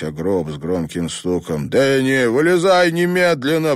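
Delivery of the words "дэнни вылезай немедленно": loud, high, furious order; angry roar. A narrator's reading. Father in the grave ordering his dead son out, furious roar. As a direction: roar at the coffin to get out. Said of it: "прорычал он".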